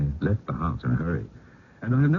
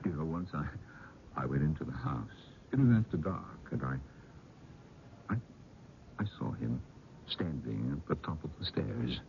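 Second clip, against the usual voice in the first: much softer, secretive, halting; hushed confession; 2 semitones lower, 13 dB quieter than usual. Acted. Uncle confessing to young couple, hushed. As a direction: lean in and confide the sighting.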